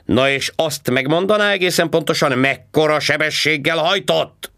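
high, loud mocking cop voice; sarcastic policeman. A narrator's reading. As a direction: needle him like a smug traffic cop. Policeman demanding speed. (gúnyos rendőrhang, magasan és hangosan)

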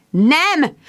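high, loud emphatic no; firm no. A narrator's reading. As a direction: cut the idea off hard. Friend firmly forbids calling.

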